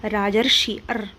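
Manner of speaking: राजर्षि said slowly, then अर on its own; slow sounding out. Shown as a demonstration. Teacher slowly says राजर्षि and isolates अर for students. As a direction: pull out the अर in राजर्षि, then say अर alone. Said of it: "इसको बोल के देखिए".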